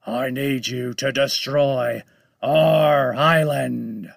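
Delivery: slow, loud monster roar; roaring shark. Acted. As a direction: bellow it slowly like a huge shark. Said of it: "Loan Shark roared".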